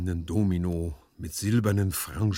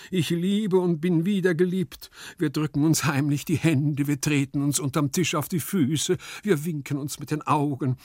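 high, louder, impassioned lament; wailing lover; 8 semitones higher, 5 dB louder than usual. A narrator's reading. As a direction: pour out the secret love. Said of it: "jammerte Gumpellino". (jammernd, hoch und leidenschaftlich)

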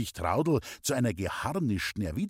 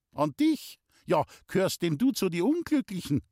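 higher, mocking mother's question; teasing old mother; 8 semitones higher than usual. A narrator's reading. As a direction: tease him with a sharp question. Traudl mocking the old man.

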